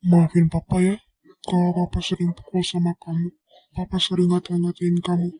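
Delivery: loud, high pleading apology; anguished plea. Acted. Father begging his daughter to forgive him, anguished plea. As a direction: cry out the apology in despair.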